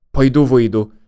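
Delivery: plain reading voice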